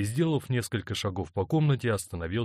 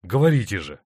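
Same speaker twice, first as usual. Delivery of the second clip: insistent; 8 dB louder than usual. A narrator's reading. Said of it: "настойчиво допрашивал он".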